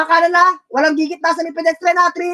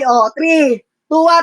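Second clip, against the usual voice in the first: loud countdown; 5 dB louder, slower than usual. Real, not acted. Countdown call to teammates.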